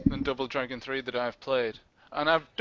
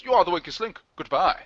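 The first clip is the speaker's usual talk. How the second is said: Anne Robinson impression; 3 semitones higher, 4 dB louder than usual. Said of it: "who says".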